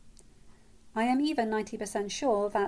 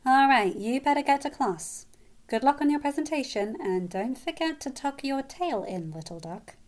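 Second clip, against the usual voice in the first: higher, singsong teasing farewell; big-sisterly send-off; 5 semitones higher, 4 dB louder than usual. A narrator's reading. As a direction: send her off with playful affection.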